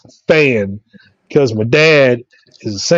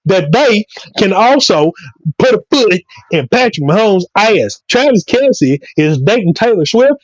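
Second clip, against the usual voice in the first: animated, higher-pitched football tirade; comic sports rant; 4 semitones higher than usual. Acted. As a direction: rant like a fired-up sports pundit.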